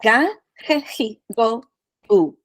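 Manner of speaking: crisp, separate Spanish syllables "Ga, ge, he, go, gu" with clean open vowels; Spanish syllables demo. Shown as a demonstration. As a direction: say "Ga, ge, he, go, gu" one by one, each vowel full and pure. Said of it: "I like to say it this way".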